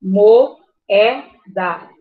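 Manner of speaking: "Moeda" split as mo - e - da; loud "mo", then pauses between syllables of "Moeda"; mo, é, da, one at a time. Shown as a demonstration. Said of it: "Uma vogal numa sílaba".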